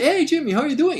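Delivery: high, loud hello; retold called greeting. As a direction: call out to a friend in the lion cage.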